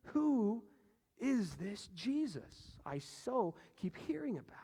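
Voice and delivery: a hushed, secret whisper of doubt; wondering whisper. Acted. Skeptical official asks himself in a whisper. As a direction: whisper it like a private question.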